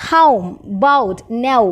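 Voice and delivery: ഹൗം, ബൗട്ട്, നൗ slowly with a rounded gliding vowel; slow, separated drill of നൗ and its gliding vowel; eighth-diphthong examples. Shown as a demonstration. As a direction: draw out the glide in ഹൗം, ബൗട്ട്. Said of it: "ഇനി eighth sound എന്ന് പറയുന്നത്".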